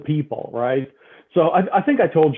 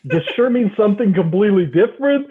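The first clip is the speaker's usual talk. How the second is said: incredulous; 2 semitones higher than usual. Retold or imitated. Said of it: "I'm like".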